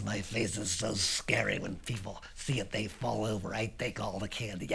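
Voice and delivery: low, understated boast; quietly sure of himself; matter-of-fact kid. Acted. Lance explains his scary face.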